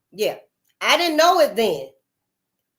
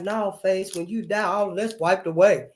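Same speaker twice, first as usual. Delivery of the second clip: imitating the cousin; 2 semitones lower, 3 dB quieter than usual. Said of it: "That's how he talked".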